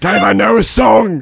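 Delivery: slow, laughing mock Cockney accent; a playful stab at a Cockney accent; Cockney Hal. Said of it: "this Cockney Hal".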